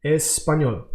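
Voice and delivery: "español" said the Spanish way, es-pa-ñol with a falling end. Shown as a demonstration. Teacher modelling the word for learners, careful demo. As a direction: give "español" its native sounds. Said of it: "We say like this".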